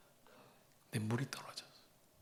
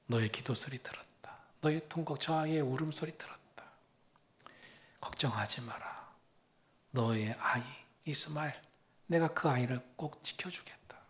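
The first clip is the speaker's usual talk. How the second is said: tender reassurance; 3 dB quieter than usual. Acted. Preacher voices God to Hagar.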